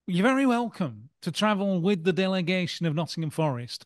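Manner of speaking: a hint of the old manager laying down the rules; mild Clough impersonation; Brian Clough impression. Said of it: "that Clough impression was outstanding".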